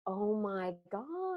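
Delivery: long drawn-out feigned surprise; play-acted astonishment, very slow; mock amazement. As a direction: stretch every word in staged wonder. Mock shocked redo of husband's reaction.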